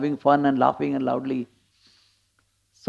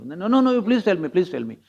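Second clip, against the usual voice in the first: insistent pleading; 3 semitones higher than usual. Retold or imitated. Rukmini begging Krishna to tell his secret, insistent. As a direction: imitate a wife begging to be told. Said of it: "So she insists".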